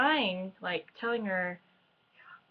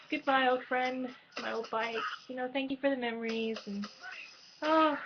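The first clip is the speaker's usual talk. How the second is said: teary-eyed; 4 semitones higher than usual. Real, not acted. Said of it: "getting a little teary-eyed".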